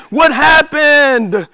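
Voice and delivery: slow searching question; puzzled question, drawn out. Acted. Repeating the question, first take.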